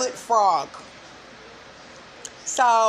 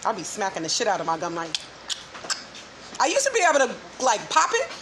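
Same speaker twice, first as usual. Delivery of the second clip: chewing gum; 2 semitones lower, much faster than usual. Real, not acted. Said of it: "I got gum in my mouth".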